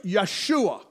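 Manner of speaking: Yeshua as YAH-shoo-ah; name it the Arabic way. Shown as a demonstration. Preacher giving the Arabic form. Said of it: "In Arabic".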